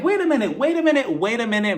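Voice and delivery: high, rising disbelief that settles by the third; wait, wait, catching yourself mid-shock; retold shocked reaction. Her own shocked reaction, retold.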